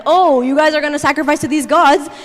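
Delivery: mockingly sassy taunt; lively sarcastic jeering. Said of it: "he's, like, so sarcastic, he's, like, so sassy".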